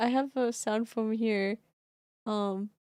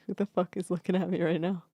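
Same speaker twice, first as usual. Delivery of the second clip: cat's voice; 2 semitones lower, 5 dB louder, faster than usual. Retold or imitated. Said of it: "She's like".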